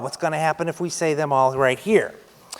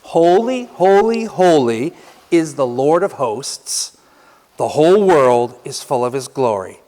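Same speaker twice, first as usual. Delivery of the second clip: proclaiming; 3 dB louder than usual. Shown as a demonstration. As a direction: lay out the words for reflection. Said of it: "Those words".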